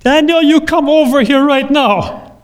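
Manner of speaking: firm summons to a grown man; a hint of a stern old woman commanding. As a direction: call him over like a strict mother. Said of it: "with a stern voice".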